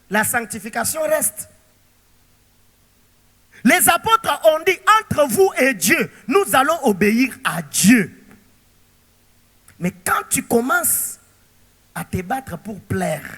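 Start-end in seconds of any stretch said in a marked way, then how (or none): 5.0-8.2 loud, firm apostles' declaration; bold proclamation. Retold or imitated. Preacher voicing the apostles before the council, loud and firm. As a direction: declare it boldly over the crowd.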